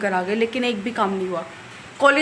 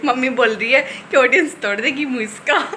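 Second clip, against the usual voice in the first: laughing. Real, not acted. Laughing while relaying mom.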